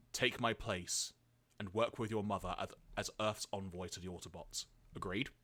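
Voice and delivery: lightly voiced dying father, softly trailing; solemn last wishes from the deathbed; Spike. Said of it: "try and recreate the voice I did".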